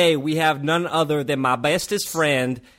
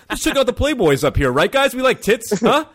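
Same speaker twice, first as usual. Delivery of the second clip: higher, louder hammed-up bro voice; mock macho teen; 8 semitones higher, 4 dB louder than usual. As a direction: fake it as a lads-talk teenager. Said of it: "pretend I was like".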